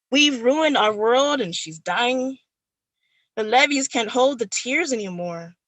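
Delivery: spoken word, building to pleading; poem recitation. Acted. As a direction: recite it with rising urgency. Performs her poem I, Robot Again.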